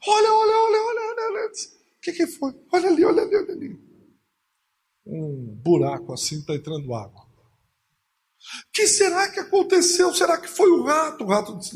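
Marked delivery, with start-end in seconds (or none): 0.1-3.8 high, frantic cries of look; family terrified by the leaking ark; panicked pointing. Acted. 8.7-11.2 high, urgent wondering; puzzled alarm. Acted. Noah asking who did it.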